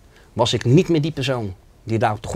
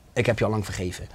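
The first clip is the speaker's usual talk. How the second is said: soft voice; 3 semitones lower, 8 dB quieter than usual. Retold or imitated. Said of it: "maar hij was superzacht".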